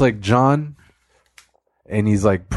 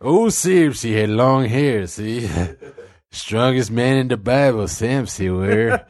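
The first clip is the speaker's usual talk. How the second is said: narrator character voice; 2 semitones lower than usual. Pretend. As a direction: tell it like a folksy old preacher. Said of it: "your character that you're narrating".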